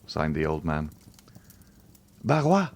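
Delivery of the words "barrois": cry. A narrator's reading. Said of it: "cried Valentine".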